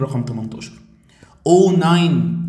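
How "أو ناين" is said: loud, higher-pitched mock-shocked cry; dramatic dismay. Teacher playing up alarm at a test question, mock shock. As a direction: blurt it out to startle the student. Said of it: "وعملت عليك حكايه".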